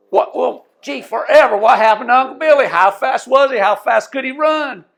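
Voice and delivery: high, loud, breathless asking; an excited fisherman pressing for the answer, loud and high; eager question. Retold or imitated. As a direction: lean in, dying to know how fast he was. Fisherman asks about Uncle Billy.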